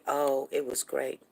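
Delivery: offhand, half-hearted praise; unenthusiastic. Shown as a demonstration. Mother showing kids how not to answer, unenthusiastic. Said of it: "you don't just say".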